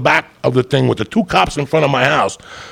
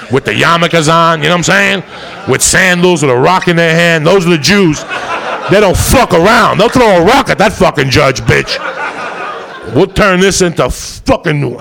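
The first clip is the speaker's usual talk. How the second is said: laughing rant; 5 semitones higher, 3 dB louder than usual. Real, not acted. Comic rant about Jewish lawyers.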